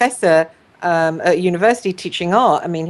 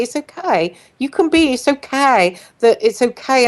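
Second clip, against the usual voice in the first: reassuring; 6 semitones higher than usual. Retold or imitated. Witnesses reassuring a ranting person.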